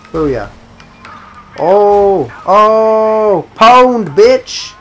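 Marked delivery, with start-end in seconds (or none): 1.6-4.7 triumphant yell. Real, not acted. Celebrating a kill in game.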